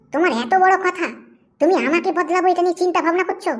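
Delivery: affronted wife, scolding; angry. Acted. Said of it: "তুমি অত রাগ করছো কেন?".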